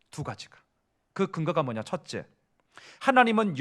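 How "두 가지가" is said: whisper. Real, not acted. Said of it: "whispered repeat".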